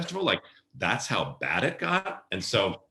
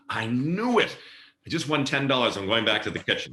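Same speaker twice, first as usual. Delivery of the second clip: excited manager; 6 semitones higher than usual. Retold or imitated. Manager excited about winning bet.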